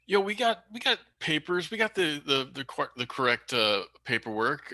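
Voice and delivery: put-on high, hammy New York accent; bad New York accent. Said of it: "I put on a really bad New York accent".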